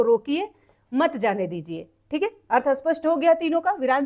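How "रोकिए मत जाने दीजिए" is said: रोकिए, a break, then lower मत जाने दीजिए; pause after रोकिए. Shown as a demonstration. Teacher contrasts meanings for students, pausing after रोकिए. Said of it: "जबकि यहाँ कहा जा रहा है".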